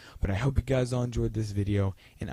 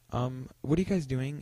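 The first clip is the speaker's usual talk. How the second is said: imitating a polite, higher-pitched question; 4 semitones higher than usual. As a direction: ask politely, pitched a little up. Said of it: "in, like, a polite tone".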